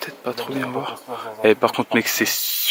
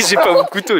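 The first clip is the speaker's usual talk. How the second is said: laughing; 9 semitones higher, 8 dB louder than usual. Real, not acted. Laughs at the prank.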